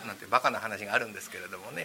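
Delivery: ordinary delivery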